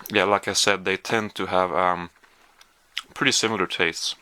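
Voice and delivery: talking while chewing; mouth full. Real, not acted. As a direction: speak through a mouthful of candy. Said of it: "excuse me for speaking with my mouth full".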